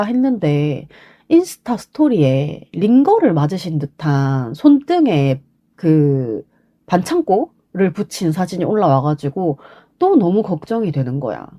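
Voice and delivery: ordinary delivery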